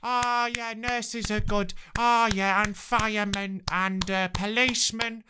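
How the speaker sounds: lightly voiced enthusiastic Brit, slowed and breathy-free sing-song; mock gushing clapper. Comedian mocking Brits who clap for everything, mild mock gushing voice. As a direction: send up the over-eager applauder in a mild put-on voice. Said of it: "We don't need to be out there like".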